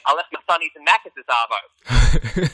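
slow Aussie slang, stretched out; Australian slang. Shown as a demonstration. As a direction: play up the Australian lingo.

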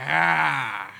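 short mock lion roar; lightly voiced lion roar. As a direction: imitate a roar briefly. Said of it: "invece di loro andare".

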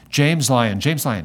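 loud, harsh calling out of a name; mock-stern gate agent calling a passenger. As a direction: bark the name down the line like an impatient agent. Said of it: "She had a kind of harsh, angry tone".

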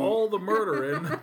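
laughing dark joke. Real, not acted.

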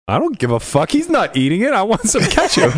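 high-pitched mock outrage at the waiter; retold angry demand. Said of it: "I was so mad".

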